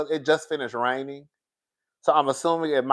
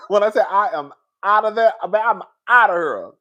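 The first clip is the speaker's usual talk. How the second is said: louder and higher, laughing through the words; laughing loudly; 6 semitones higher, 6 dB louder than usual. Real, not acted. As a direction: laugh it out, half joking about leaving. Laughing at own vow.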